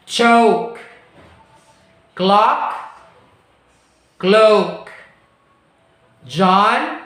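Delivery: each word "walk", "woke", "not", "note" said alone and clearly, with a long pause after each; careful minimal pair drill. Shown as a demonstration. Teacher modelling minimal pairs for the class to repeat, carefully. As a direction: model "chop" against "choke" and "clock" against "cloak", one word at a time. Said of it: "So repeat after me one more time".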